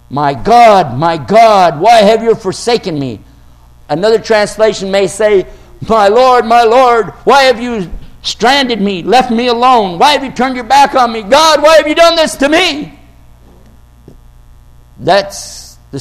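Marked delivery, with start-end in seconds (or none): 0.1-3.2 loud cry of abandonment; anguished cry. Retold or imitated. Quoting the cry on the cross. 5.9-13.0 rising, pleading lament that climbs higher; pleading cry. Retold or imitated. Voicing the cry in another translation.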